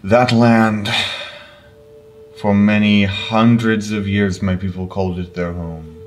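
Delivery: mournful elder, a light Russian lilt; lightly voiced elder, sorrowful; solemn elder. DM voicing NPC Zerus.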